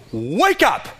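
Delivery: jolting wake-up call. Retold or imitated. Preacher voices God's call to the church, jolting cry. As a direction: call out to jolt them to attention. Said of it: "it should jolt us to attention".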